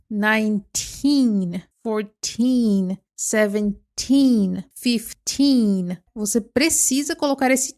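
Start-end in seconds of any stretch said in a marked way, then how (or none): 0.1-6.0 put-on Nineteen, fourteen, seventeen, fifteen with teen long and stressed; stretched teen ending. Shown as a demonstration. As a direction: drag out every teen ending. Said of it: "o teen precisa ser muito puxado mesmo". (esticar bem o teen no final)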